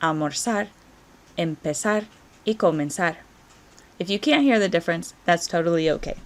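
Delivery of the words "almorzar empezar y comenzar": almorzar, empezar, comenzar with a soft "s" for Z. Shown as a demonstration. Teacher letting students hear the difference, almorzar, empezar, comenzar with soft S. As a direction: say almorzar, empezar, comenzar Latin American style, no "th". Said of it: "or as a soft S".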